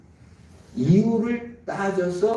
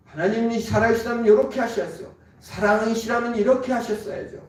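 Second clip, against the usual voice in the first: quick, higher complaining; complaining believer; 5 semitones higher, faster than usual. Retold or imitated. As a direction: rattle off the complaint fast. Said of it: "라고 말을 합니다". (빠르게 불평하듯)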